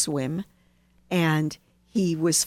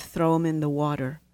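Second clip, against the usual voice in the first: mild imitation of a calm wise man giving an order; very calmly; 4 semitones lower than usual. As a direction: say it like a sage with no hurry at all. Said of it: "just very calmly".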